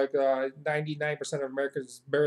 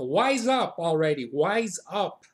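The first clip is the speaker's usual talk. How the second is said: emphatic, exasperated telling-off; punchy demand to shape up; scolding; 3 semitones higher, 4 dB louder, slower than usual. Shown as a demonstration. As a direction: tell them off firmly, pitch jumping up. Translating scolding phrase.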